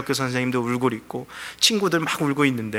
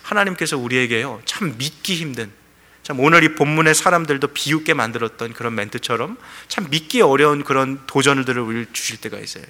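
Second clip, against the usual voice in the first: usual speaking voice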